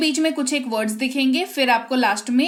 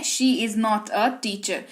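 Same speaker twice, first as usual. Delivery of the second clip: slow and a bit softer, word by word; slow model sentence; 4 semitones lower, 4 dB quieter, much slower than usual. Shown as a demonstration. Teacher repeating the English line slowly for learners. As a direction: repeat it slowly for students to copy. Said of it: "वह एक शिक्षिका नहीं है".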